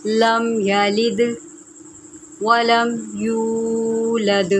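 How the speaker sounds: slow melodic tajweed recitation; reciting the surah slowly, like a qari; Quran recitation. Acted. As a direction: draw out every word in measured chant. Teacher recites the full surah.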